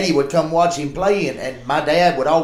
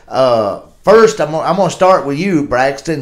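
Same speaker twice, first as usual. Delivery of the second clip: sideline reporter; 4 dB louder than usual. Retold or imitated. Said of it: "like Michelle Tafoya does".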